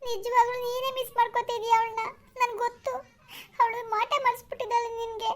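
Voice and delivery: acted weeping complaint; tearful. Girlfriend accusing Arun of missing another woman, crying. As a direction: sob out the jealous accusation. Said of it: "ನೀನು ಅಳ್ಬೇಡ ನೀನು".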